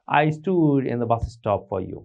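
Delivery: each word laid out very slowly; very slow, clear model sentence; slow example sentence. Shown as a demonstration. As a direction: dictate it slowly for learners. Teacher reads example sentence.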